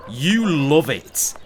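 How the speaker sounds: slow, drawn-out teasing; slow mock-smug tease to the viewers. Teasing viewers about premium content.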